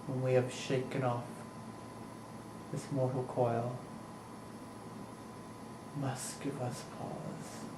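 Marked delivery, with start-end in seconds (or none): 6.0-7.6 slow hushed whisper. Acted. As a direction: let it fade into a whisper. Soliloquy, line ends in hush.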